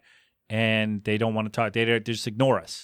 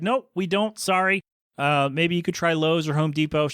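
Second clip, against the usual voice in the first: higher-pitched, helpful clerk's reply; sincere apology; 3 semitones higher than usual. Retold or imitated. Clerk telling customer they don't stock it, sincere. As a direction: apologise earnestly and offer an alternative. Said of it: "she was very sincere".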